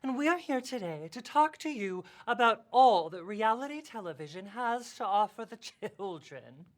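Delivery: showy, affected broadcast intro; radio voice. Acted. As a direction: sweep through it like a radio host. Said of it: "that's my radio voice".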